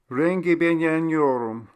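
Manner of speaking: Charlie voice. A narrator's reading. Foreign phrase in dialogue.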